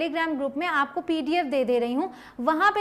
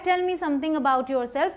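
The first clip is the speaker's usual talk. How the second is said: slow interviewer question; much slower than usual. Retold or imitated. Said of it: "अब वो कह रहा है".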